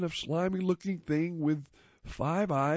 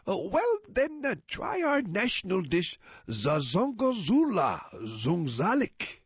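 alien voice; 5 semitones higher than usual. Acted. Alien suggests national dish.

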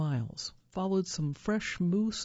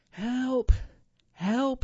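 louder, higher cry for help; yell for help; 8 semitones higher, 6 dB louder than usual. A narrator's reading. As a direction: call out loudly, pitched well up. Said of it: "he yelled".

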